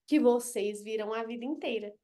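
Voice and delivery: whispered aside. Real, not acted. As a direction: drop to a whisper mid-explanation. Unvoiced aside in lesson.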